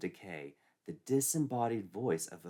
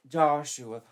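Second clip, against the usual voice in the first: put-on girlish Betsy; 6 semitones higher, 7 dB louder than usual. Betsy voiced.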